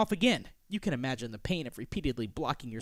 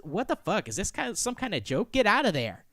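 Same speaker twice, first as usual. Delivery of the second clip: mildly acted anger, slightly raised; mad; 4 semitones higher than usual. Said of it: "She gets mad and says".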